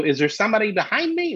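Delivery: high, puzzled question to the room; retold alarm. Comic asking the crowd what is behind him, puzzled alarm. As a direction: pitch it up, unsettled and checking.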